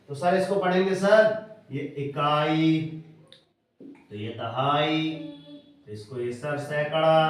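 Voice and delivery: mock slow pupil reading with sir; wrong way. Shown as a demonstration. Teacher mimics pupils reading wrongly. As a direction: show how not to read it. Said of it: "ऐसे नहीं पढ़ते हैं".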